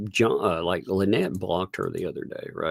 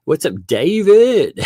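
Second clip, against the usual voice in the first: excited greeting; 10 semitones higher, 9 dB louder than usual. Real, not acted. Greeting viewer by name.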